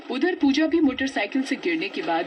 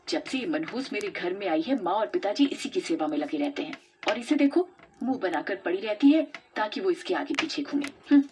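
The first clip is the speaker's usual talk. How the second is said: jealous grumble. Acted. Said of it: "मन ही मन जलने लगती है".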